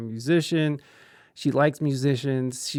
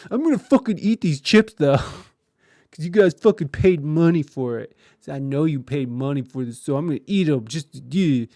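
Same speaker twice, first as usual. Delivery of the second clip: eat the chips out of spite; defiant girlfriend; 3 dB louder than usual. Retold or imitated. Girlfriend taunting the roommates who paid for the chips, spiteful.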